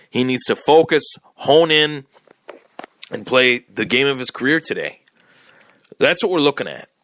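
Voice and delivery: talking while chewing gum. Real, not acted. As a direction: speak around a wad of gum. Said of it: "I apologize for the gum chewing".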